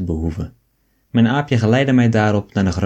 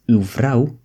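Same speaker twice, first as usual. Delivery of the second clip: ordinary delivery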